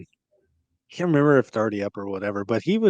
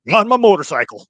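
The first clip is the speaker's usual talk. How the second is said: laughing quote; 8 semitones higher, 10 dB louder than usual. Retold or imitated. Quoting Carl's blunt answer.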